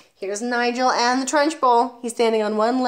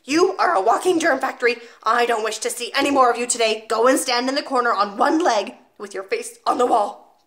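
1 furious headmistress; 3 semitones higher, 5 dB louder than usual. Acted. Trunchbull punishes the boy.

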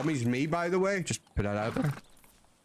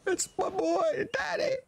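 excited shout. Real, not acted. Excited shout at son's letter.

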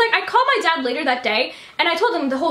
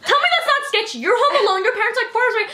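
retold panicky protest, higher pitched; freaking out; 6 semitones higher than usual. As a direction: plead your case in a mild mock freak-out. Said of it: "she's freaking out".

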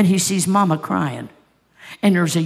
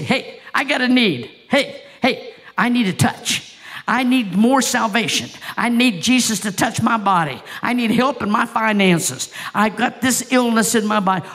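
higher, urgent calling out; eager plea; 3 semitones higher than usual. Acted. Believer calling to Jesus passing by, eager and urgent. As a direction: call out your need to Jesus. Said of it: "are you gonna say".

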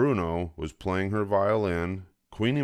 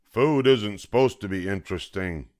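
mild roar; 5 dB louder than usual. Acted. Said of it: "roared Papa".

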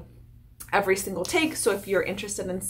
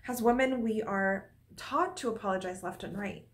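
lightly played flustered landlord; second take; 2 semitones higher than usual. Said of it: "that one felt like".

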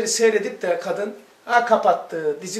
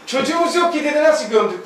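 exasperated retort; 5 semitones higher, 3 dB louder than usual. Retold or imitated. Husband's retort repeated louder.

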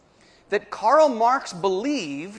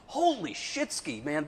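playful drawn-out mock curse, pitched up; mock Polish swear; 6 dB quieter than usual. Shown as a demonstration. To the audience, joking about a revelation: playful mock swear. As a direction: toss it off as a cheeky fake-Polish oath. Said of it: "Pardon my Polish".

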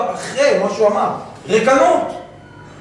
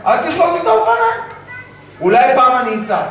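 put-on whiny child; 4 semitones higher, faster than usual. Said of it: "אתה אומר לו".

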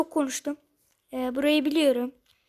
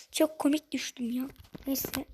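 soft amused whisper after the laugh; laughing at his own fall, then whispering; 5 dB quieter than usual. Real, not acted. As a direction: breathe it out, half to yourself.

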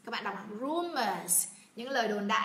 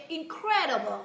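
higher-pitched, keen exclamation; delighted demo; 5 semitones higher, 4 dB louder than usual. Shown as a demonstration. Teacher showing enjoyment of the word, delighted. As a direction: say it as if you love it. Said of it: "mình rất là thích thú".

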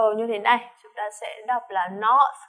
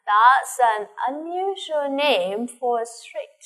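reading the dialogue; 2 semitones higher, much slower than usual. Acted. Teacher reads dialogue line.

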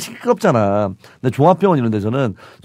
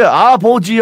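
joking split pronunciation; 6 semitones higher, 6 dB louder, much slower than usual. Shown as a demonstration. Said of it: "왜 이게".

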